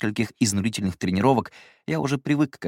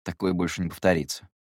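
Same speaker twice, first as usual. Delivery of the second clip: forced; 3 semitones lower than usual. Acted. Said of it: "вымученно выдал".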